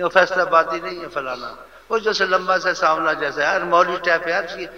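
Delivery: loud mock description; mocking gossip. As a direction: belittle him like a gossiping crowd. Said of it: "ایسے بولتے ہیں۔".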